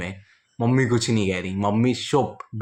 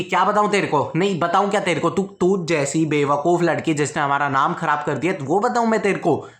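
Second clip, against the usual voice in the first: raised, scolding mother's yell; mom yelling; 4 semitones higher than usual. Retold or imitated. Mother scolding her daughter about the family's name, a raised yell. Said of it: "mummy चिल्ला देते हैं".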